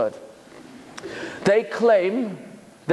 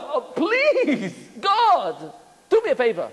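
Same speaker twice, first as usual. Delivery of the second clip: laughing plea; 6 semitones higher, slower than usual. Pretend. Pleading with God, laughing.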